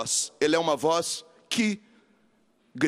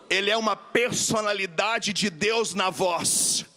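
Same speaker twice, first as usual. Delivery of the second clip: slow, drawn-out preaching over music; 3 semitones higher, slower than usual. Acted. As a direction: lean into each phrase slowly, like a proclamation. (pregação lenta e solene)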